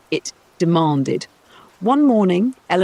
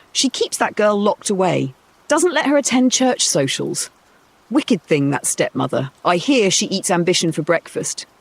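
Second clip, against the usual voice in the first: lightly voiced town gossip; 3 semitones higher than usual. Townsfolk gossip at market.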